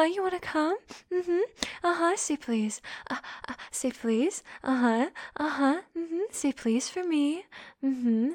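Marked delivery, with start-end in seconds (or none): none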